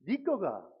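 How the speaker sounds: terse Gyeongsang question with a big pitch swoop; Gyeongsang dialect. Shown as a demonstration. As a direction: ask it curtly in Gyeongsang intonation. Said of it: "세 자".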